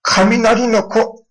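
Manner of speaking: 雷の子 spelled out word by word for emphasis; the nickname given full weight; stressed, drawn out. Shown as a demonstration. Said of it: "という名をつけられました".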